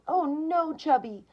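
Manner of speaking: high, loud cry of alarm; sudden loud yell of fright. A narrator's reading. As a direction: shout out in panic for the cat. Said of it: "Karen yelled".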